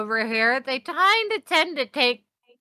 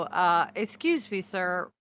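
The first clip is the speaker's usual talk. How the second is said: softer, slower, politely hesitant; a careful, deferential ask; Ray quietly and politely asking for Oleg; polite approach; 2 semitones lower, 8 dB quieter than usual. Acted. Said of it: "Ray's gonna walk over and go".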